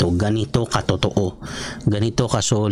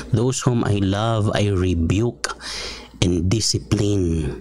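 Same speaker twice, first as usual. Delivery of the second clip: scripture read slowly and gravely; slow solemn quote; slower than usual. Shown as a demonstration. Pastor quoting Revelation to the congregation, solemn.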